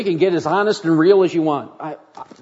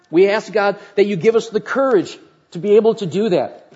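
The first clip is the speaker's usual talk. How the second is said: prayer. Acted. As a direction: pray it out earnestly. Leads closing prayer.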